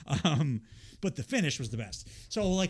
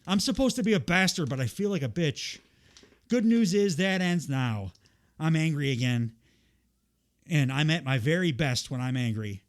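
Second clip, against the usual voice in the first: mock Geordie promo; 2 semitones higher, 4 dB louder than usual. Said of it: "I can't do a Geordie accent".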